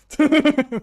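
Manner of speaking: loud, high sudden cackle; random burst of laughter. Acted. Voice actor recording a random laugh, loud sudden laughter. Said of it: "random laughter".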